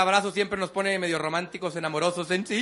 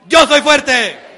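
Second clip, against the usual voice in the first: loud, higher shout of "Yo soy fuerte", dragged very slowly; slow strong shout; 5 semitones higher, 13 dB louder, much slower than usual. Shown as a demonstration. Speaker leads the crowd, shouting slowly. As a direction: stretch each word out as a loud declaration. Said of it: "repitan mis movimientos y mi tono de voz".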